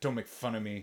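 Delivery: soft, defensive, pushing-back tone. Retelling her reply when he asked how she was, mock-defensive retelling. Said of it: "she gets all defensive and she's like".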